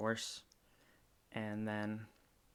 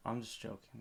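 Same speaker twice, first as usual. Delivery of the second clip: ordinary talk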